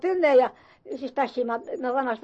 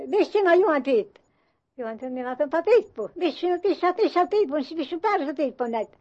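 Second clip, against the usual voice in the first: stern questioning mistress; 3 semitones higher than usual. Retold or imitated. Old farm mistress questions the boy.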